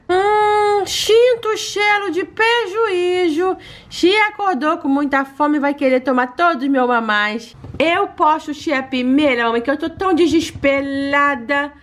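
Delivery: lightly whiny pet voice; a touch of pouty pet; baby-voiced pet complaining. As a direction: sulk a little like a cute dog.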